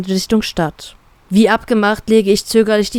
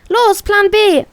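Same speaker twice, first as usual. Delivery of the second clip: much higher, louder urgent yell; Schrei; 12 semitones higher, 3 dB louder, slower than usual. Acted. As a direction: shout the order to run. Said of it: "schreie ich". (lauter, hoher Schrei)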